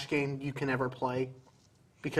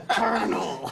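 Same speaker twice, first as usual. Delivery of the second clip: slow, teeth clenched Snake voice; through gritted teeth; 4 semitones higher, much slower than usual. Pretend. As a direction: clench your jaw and grit it out. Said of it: "He always talks like that through his gritted teeth".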